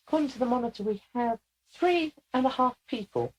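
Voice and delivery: high, squeaky character voice; Leica. Acted. Channeled lieutenant reads the monitor to the room, squeakily. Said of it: "somebody that has a very squeaky voice".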